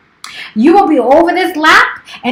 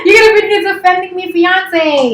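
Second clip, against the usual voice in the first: mock crying; 4 semitones higher than usual. Teasing her fiance for not defending her, mock crying. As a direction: fake sob through the complaint.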